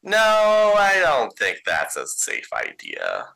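sudden loud nervous no; anxious outburst. Acted. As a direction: panicky refusal, then steadier. Doolin refuses pickup.

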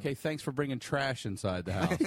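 lightly sarcastic retold thanks; mock gratitude, said with mild sarcasm. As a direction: thank them as a dry dig. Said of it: "and just sarcastically, I'm like".

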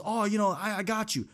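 high, dismissive imitation of a hollow promise; mock the friends who just say it; mocking empty promise. Mimicking fair-weather friends, mocking and high. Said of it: "'Cause everybody says".

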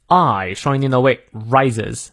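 "rises" with the I diphthong fully sounded; full diphthong. Shown as a demonstration. Teacher drilling the diphthong for learners, slow full I in "rises". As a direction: stretch the I in "rises" slowly.

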